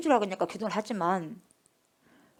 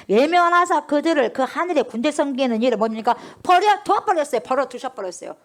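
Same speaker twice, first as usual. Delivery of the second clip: fiery preaching; 3 semitones higher, 6 dB louder than usual. Acted. Preaching at full force.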